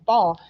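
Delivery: "fall" as one firm, falling beat; stress on fall. Retold or imitated. Stressing their word to listeners, emphatic fall. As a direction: put a short, firm punch on "fall". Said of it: "they emphasize fall again".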